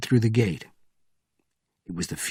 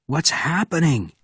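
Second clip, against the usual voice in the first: raised voice; 6 semitones higher than usual. Acted. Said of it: "shouted Benjamin".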